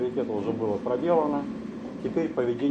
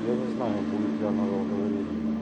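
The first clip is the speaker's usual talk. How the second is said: prophetic trance voice; 8 dB quieter than usual. Shown as a demonstration. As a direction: speak as a seer in trance. Leads a trance oracle demo.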